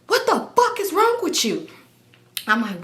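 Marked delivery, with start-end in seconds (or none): 0.1-1.7 high mock yell of outrage; exaggerated high-pitched scolding; angry outburst, imitated. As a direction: imitate him hollering in disbelief. His acted angry outburst after braking.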